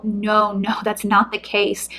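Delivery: soft, gentle reassurance from dad; a quiet fatherly no, no; reassuring father. Pretend. Father reassuring his child, softly reassuring. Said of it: "He wants you to know".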